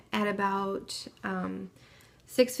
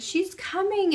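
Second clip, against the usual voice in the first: retold scream; 10 semitones higher, slower than usual. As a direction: mildly cry out, voice jumping high. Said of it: "I screamed out".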